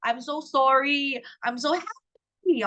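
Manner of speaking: lightly bubbly sample replies; excited. Shown as a demonstration. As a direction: model gushing exclamations. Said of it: "You can use things like".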